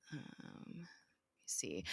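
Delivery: soft whispered self-talk; whispered aside. Real, not acted. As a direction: whisper to yourself while checking notes. Muttered aside checking notes.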